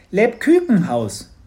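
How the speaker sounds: "Lebkuchenhaus" with ü and k for "uchen"; creature's pronunciation. Acted. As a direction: proclaim "Lebkuchenhaus" loudly as Leb-küken-haus. Proposes the creature's word as name.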